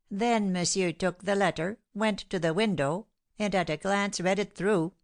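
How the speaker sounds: lightly voiced fussy servant, eager to tell; a hint of a gossiping servant; excited servant. Baptiste's tale goes on.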